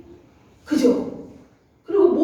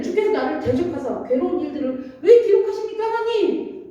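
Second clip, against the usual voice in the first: acted reproach, rising on the final address; mildly hammed-up cry of complaint; resentful lament; 5 semitones higher than usual. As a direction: protest to God as the aggrieved Job. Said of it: "그러면서 탄식까지 하고 원망하고 탄식하고 막".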